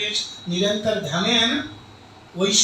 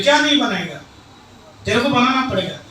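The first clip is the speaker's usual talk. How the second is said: louder, commanding husband; angry demand; 3 semitones higher, 5 dB louder, faster than usual. Acted. Husband ordering wife to cook, louder.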